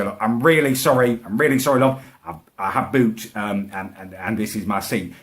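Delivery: imitating a polite, hesitant apology; polite request. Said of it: "polite as you like".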